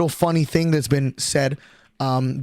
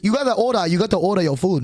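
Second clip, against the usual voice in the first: put-on Asian accent. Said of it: "putting a bit of an accent".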